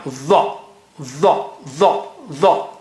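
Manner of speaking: the said with a heavy, high-sounding dh and a rounded vowel; thick high tha. Shown as a demonstration. Teacher drilling the thick Arabic letter, heavy and high. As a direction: press the tongue up for a heavy the. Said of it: "very thick and high".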